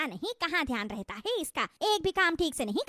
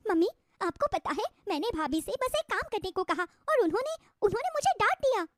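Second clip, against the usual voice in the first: fake crying; 5 semitones higher than usual. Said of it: "रिया रोने का नाटक करती है".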